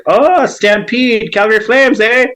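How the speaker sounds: high, drawn-out excited cheer; excited imitation. Locals hearing someone is from Calgary, imitated excitedly. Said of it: "They get really excited about that".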